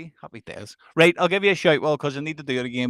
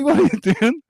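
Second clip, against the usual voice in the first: higher, louder mock yell; startled shout; 11 semitones higher, 6 dB louder than usual. Woken to find Maxwell at the bedroom door, startled shout. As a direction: shout it like you've just been woken.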